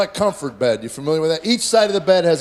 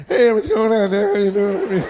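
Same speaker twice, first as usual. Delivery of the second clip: put-on high boyish voice; 4 semitones higher than usual. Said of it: "voice never dropped".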